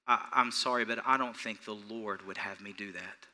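gentle apology, settling soft and low; sincere. Shown as a demonstration. Preacher models refusing a request from church people, sincere. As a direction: decline softly and humbly. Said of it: "You need to say with all sincerity".

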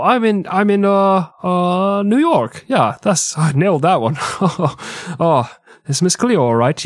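hammed-up phony Jamaican psychic, dropping the act mid-call; fake Jamaican accent. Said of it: "this isn't Jamaican at all".

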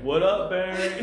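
mock casual gorilla greeting; a laid-back, buddy-style Grodd. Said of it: "Thawne starts talking like Grodd".

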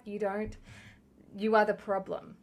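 ordinary talk, nothing marked

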